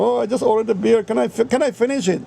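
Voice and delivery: high, mincing imitation of the husband; mocking effeminate voice. Mocking the husband begging his wife, high and mincing. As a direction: camp it up, pleading. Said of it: "he was such a fucking poofter".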